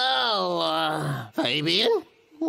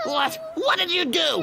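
high, shocked question; startled; 7 semitones higher than usual. Acted. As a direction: jolt up in surprise. Owner shocked at cat.

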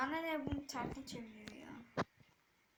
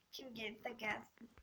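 whisper; 7 dB quieter than usual. Real, not acted. Whispered aside while laughing.

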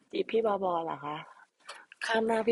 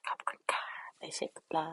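whisper; 2 semitones lower, 4 dB quieter than usual. Pretend. Whispered repeat of thanks.

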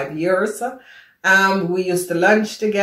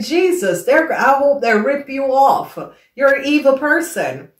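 higher-pitched, indignant retort; indignant outburst; 6 semitones higher than usual. Retold or imitated. Woman recalling her outrage at the colleague who cheated her, indignant. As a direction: curse out a cheat in your head. Angry inner reaction to unpaid invoice.

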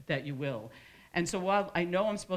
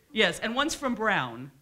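slow, loud, raised show-off voice; mock boast; 6 semitones higher, 8 dB louder, slower than usual. Speaker imitates someone boasting about Brown, slow mock brag. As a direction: stretch it out like a proud brag.

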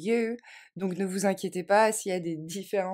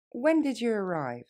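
faster; 3 semitones higher than usual. Shown as a demonstration. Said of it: "Plus rapidement".

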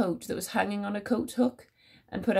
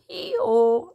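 a louder, braying hee-haw; mule bray; 7 dB louder than usual. Acted. Teacher voicing the rude mule for the children, loud mock bray. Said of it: "brayed a rude mule".

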